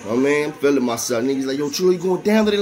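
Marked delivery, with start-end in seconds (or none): 1.6-2.6 higher-pitched upbeat call, mimicking a buddy; mock hype. Fellow inmate asks if he is going down today, mock hype. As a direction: imitate an excited friend checking in. Inmates hyping him before visit.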